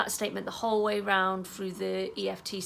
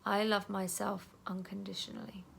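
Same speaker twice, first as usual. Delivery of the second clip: calm self-talk while tapping; gentle affirmation; 4 dB quieter than usual. Shown as a demonstration. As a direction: say it tenderly to yourself. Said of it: "you're gonna say".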